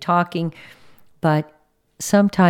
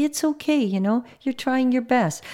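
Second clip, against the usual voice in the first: higher-pitched, gentle reassurance; reassuring; 6 semitones higher, 3 dB quieter than usual. Retold or imitated. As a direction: let them off the hook kindly. Voices kind reassurance to worker.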